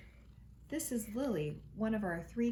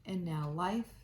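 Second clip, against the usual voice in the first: gentle read-aloud storytelling voice; reading aloud to a child at home; storybook narration. A narrator's reading. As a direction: read it like a bedtime picture book. Reading picture book to children.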